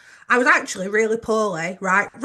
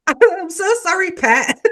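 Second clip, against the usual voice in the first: high, loud mock Geordie; exaggerated, pitched-up Geordie accent; Geordie accent impression; 8 semitones higher, 5 dB louder, slower than usual. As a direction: play up a Geordie apology after laughing. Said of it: "I'm not gonna do a Geordie accent again".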